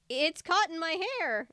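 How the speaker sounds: high, loud frightened cry; terrified outcry; panicked cry. A narrator's reading. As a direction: shriek in panic. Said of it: "I cried".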